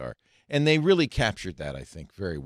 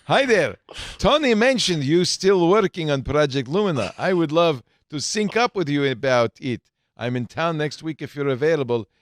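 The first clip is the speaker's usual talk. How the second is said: fancy voice; 3 semitones higher, 4 dB louder than usual. Acted. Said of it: "putting on the Ritz".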